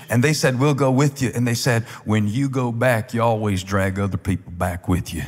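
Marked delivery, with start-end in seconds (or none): 0.6-1.3 put-on country preacher accent. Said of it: "I'm gonna do it in a country preacher accent". 2.1-5.2 put-on country preacher accent. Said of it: "I'm gonna do it in a country preacher accent".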